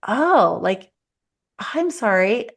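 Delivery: gentle empathy. Shown as a demonstration. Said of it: "instead it's like".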